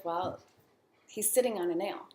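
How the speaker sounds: mildly offhand, unbothered homeowner reply; nonchalant. Retold or imitated. Homeowner answering the dog walker about his whining dog, nonchalant. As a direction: shrug it off with a pause after the first word. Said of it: "just very nonchalantly says".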